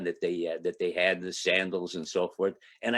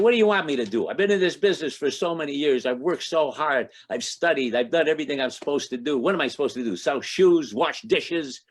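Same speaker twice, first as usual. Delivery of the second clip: loud, higher, exasperated outburst; indignant rant at Saint Jude, voice raised; telling off a saint; 4 semitones higher, 4 dB louder than usual. Retold or imitated. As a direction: vent the frustration at the saint. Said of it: "I tell Saint Jude off".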